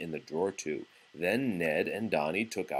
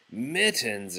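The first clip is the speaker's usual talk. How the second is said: exclaimed; 3 semitones higher than usual. Acted. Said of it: "exclaimed Grandma".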